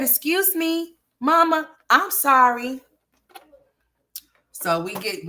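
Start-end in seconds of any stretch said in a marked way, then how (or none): 0.0-2.8 high, whiny fake-sorry kid voice; mock crying. Mother mimicking her son apologizing, mock sobbing. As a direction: beg like a child pretending to cry. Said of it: "he be fake crying".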